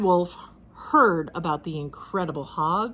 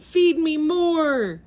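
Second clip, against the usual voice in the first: slow, loud, higher demand; slow monster shout; 8 semitones higher, 5 dB louder, much slower than usual. A narrator's reading. Giant pig demanding more food from his inventor, slow roar. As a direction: drag out a greedy roar. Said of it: "he shouted".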